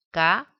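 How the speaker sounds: Ma-es-tra said syllable by syllable; syllables split apart. Shown as a demonstration. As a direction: break Ma-es-tra into three separate beats. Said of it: "Si separamos". (separar Ma-es-tra sílaba por sílaba)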